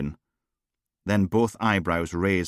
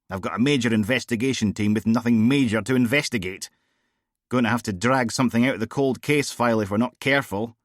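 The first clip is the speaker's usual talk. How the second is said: a hint of a blunt, raised-voice female DI; tossing off casual jibes, a little louder; lightly voiced brash boss; 3 semitones higher, 3 dB louder than usual. Bored boss grumbling to her officer, lightly voiced.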